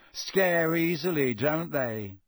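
slow, lazy taunt; Malfoy lazily mocking the screaming crowd; lazy sneer. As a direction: toss it off lazily. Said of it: "he said lazily".

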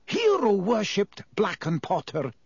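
professor character. A narrator's reading.

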